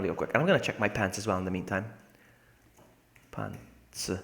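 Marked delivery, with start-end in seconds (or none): 3.3-4.1 breathy whisper, much softer. Pretend. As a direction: hush the word to nothing. Whispered then shouted word.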